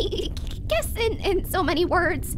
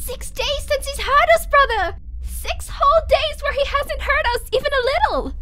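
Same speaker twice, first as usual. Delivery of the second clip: louder, pressing relief; urgent joy; 4 semitones higher, 5 dB louder than usual. Acted. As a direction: push it out, almost pleading. Pleading with brother.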